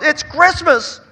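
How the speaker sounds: slow, high wailing sob; distraught mother wailing; sobbing. A narrator's reading. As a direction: draw it out in tears. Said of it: "she sobbed".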